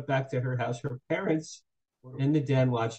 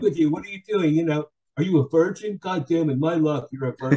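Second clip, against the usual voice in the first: loud, mock-exasperated berating; retold exasperation; 3 semitones higher, 6 dB louder than usual. Girl berating her virgin date, mock exasperated. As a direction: imitate her fed-up outburst, half amused. Retelling girl's angry complaint.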